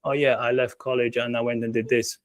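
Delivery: flat robotic monotone read; robot voice, bored and mechanical. Retold or imitated. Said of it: "in a robotic voice".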